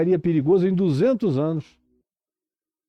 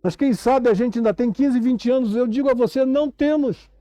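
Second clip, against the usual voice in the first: urgent, insistent sermon delivery; impassioned preaching; 9 semitones higher than usual. Real, not acted. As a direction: preach it with rising urgency, stretching the key words.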